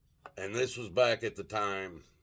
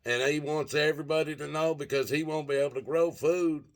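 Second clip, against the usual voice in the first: higher-pitched mocking whine; sneering retold bellyaching, pitched up; mock whining; 5 semitones higher than usual. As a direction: relay a farmer's complaint as a high whine. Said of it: "whining and bitching about it".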